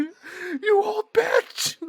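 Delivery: very high, very slow, loud strangled cry; ballistic scammer. Retold or imitated. Retelling the scammer insulting the grandma, a high slow wail. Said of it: "goes absolutely ballistic".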